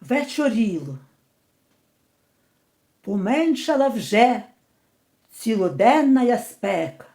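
measured verse recitation with long pauses; poem reading. Shown as a demonstration. Reads poem aloud. (повільне декламування вірша)

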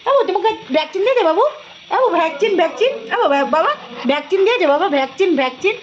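put-on lightly babyish cooing to the dogs; pet baby talk. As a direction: coo and fuss over them gently.

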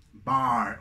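"bar" with the mouth wide open on ah. Shown as a demonstration. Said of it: "tienen que abrir la boca". ("bar" abriendo bien la boca)

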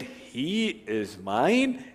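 slow, tender devotion. Shown as a demonstration. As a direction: savour the word mine. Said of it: "The sentiment".

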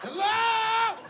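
high, drawn-out hello; acted forlorn call from the tub. Patient still calling from bathtub.

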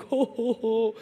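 lightly voiced jolly Santa chuckle; a hint of Santa's ho ho ho; Santa Claus laugh. Coach greeting him back like a mild Santa. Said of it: "I tell the story like he's Santa Claus".

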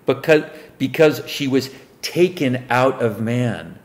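measured Bible reading voice; solemn King James recitation; scripture reading. Acted. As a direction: read the verse like a preacher at the lectern. Reads scripture aloud.

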